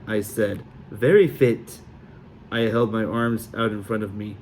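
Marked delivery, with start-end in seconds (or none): 0.9-1.8 bad Sully accent. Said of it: "my accent was even worse".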